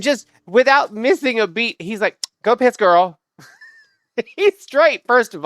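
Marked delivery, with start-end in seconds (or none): 2.4-3.2 lightly imitated drag queen delivery; a hint of drag queen in a quick retort; drag queen sass. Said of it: "almost like a drag queen".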